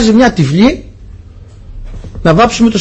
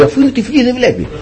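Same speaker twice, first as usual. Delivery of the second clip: retold dismissal; 6 semitones higher, 4 dB quieter than usual. Retold painter excusing the cheat.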